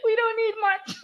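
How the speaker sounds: high squealing laughter, near tears; laughing hard. Real, not acted. Real laughter among podcast friends. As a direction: crack up till it hurts.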